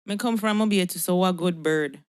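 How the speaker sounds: redone in a Jamaican accent, a touch firmer; Jamaican patois. Shown as a demonstration. Proving Mobay roots after Yankee jibe, Jamaican patois.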